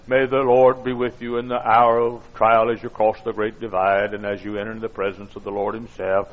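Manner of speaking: low, even recited blessing; solemn blessing. Retold or imitated. Young preacher blessing a dying woman, solemn. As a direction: intone it like a graveside prayer.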